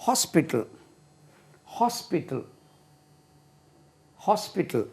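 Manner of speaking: "ஹாஸ்பிட்டல்" modelled softly, stress on the first syllable; teacher softly repeats "ஹாஸ்பிட்டல்" for learners to copy; pronunciation demonstration. Shown as a demonstration. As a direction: say "ஹாஸ்பிட்டல்" as HOS-pi-tl, softly, pausing between repeats. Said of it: "உச்சரிப்பு எப்படி?".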